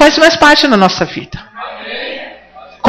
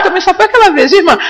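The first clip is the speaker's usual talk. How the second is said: laughing aside; 4 semitones higher, faster than usual. Real, not acted. Preacher laughing to a sister in the congregation. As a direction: chuckle through the words.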